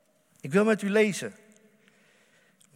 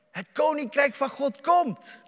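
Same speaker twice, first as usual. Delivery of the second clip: higher, louder ringing proclamation; proclaimed; 6 semitones higher, 3 dB louder than usual. Acted. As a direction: declare it out loud to the congregation. Quote then quiet repeat.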